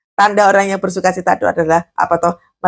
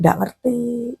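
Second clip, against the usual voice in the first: higher, softer mimicked reply; meniru konseli linglung; 4 semitones higher, 6 dB quieter, much slower than usual. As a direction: imitate a dazed counselee, higher and quieter. Meniru konseli yang diajak bicara. (menirukan konseli linglung dengan suara lebih tinggi dan pelan)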